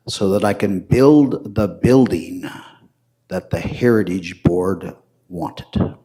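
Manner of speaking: spaced out in short phrases with long pauses; measured delivery, pausing after each phrase; slow, deliberate. Real, not acted. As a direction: say it slowly so the twist sinks in. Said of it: "I'm gonna say this slowly".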